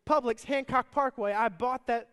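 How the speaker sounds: exasperated proof. Retold or imitated. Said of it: "He's like".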